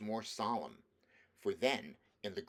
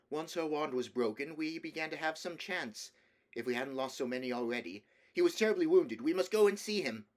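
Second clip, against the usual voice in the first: put-on higher, louder, hurried boy's report; urgent battle report; 6 semitones higher, 5 dB louder than usual. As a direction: rush it out, urgent and proud. Peter's breathless battle report.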